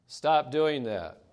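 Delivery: the parent's patience wearing thin. Retold or imitated. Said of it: "the next time the voice level rises".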